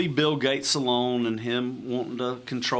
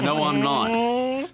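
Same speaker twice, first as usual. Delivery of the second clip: higher and slow, laughing through each word; drawn-out laughing denial; 9 semitones higher, much slower than usual. Real, not acted. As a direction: stretch it out, laughing in mock protest. Repeats denial more playfully.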